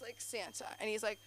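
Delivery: ordinary talk, nothing marked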